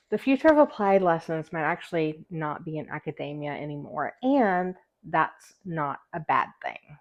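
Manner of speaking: slight lisp from a retainer. Real, not acted. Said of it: "I also have a lisp".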